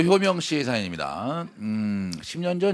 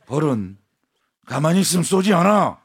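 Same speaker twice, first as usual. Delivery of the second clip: firm teacher voice; 7 dB louder than usual. Retold or imitated. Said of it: "단호하게 말씀하셨어요".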